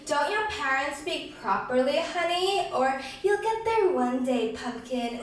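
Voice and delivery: mock-sweet, condescending quote within a poem; lightly exaggerated patronizing sweetness; sickeningly sweet. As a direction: coo it with sugary condescension. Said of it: "Sickeningly sweet, it told me".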